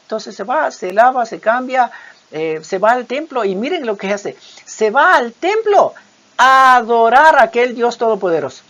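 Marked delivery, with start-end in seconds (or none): 4.6-8.6 emphatic preaching. Real, not acted. Preacher stresses David's worship.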